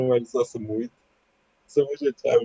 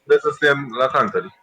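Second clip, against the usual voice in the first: raised voice over game chat; loud yelling; 5 dB louder than usual. Real, not acted. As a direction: call it out loudly to a teammate. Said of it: "Deci nu mai urla". (strigat tare)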